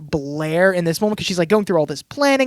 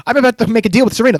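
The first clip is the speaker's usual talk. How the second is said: rushed, louder mock of Diana's phone call; 4 semitones higher, 5 dB louder, faster than usual. Mocking how the show writes Diana's dialogue, a fast, louder parody. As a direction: gabble the line as a parody of the dialogue. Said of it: "the person that I'm talking to".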